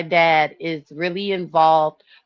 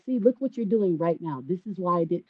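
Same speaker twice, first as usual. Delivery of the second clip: calm; 8 dB quieter, faster than usual. Retold or imitated. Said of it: "I'd be so calm".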